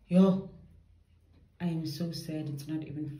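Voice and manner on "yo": loud exclamation. Real, not acted. Sudden exclamation, frustrated.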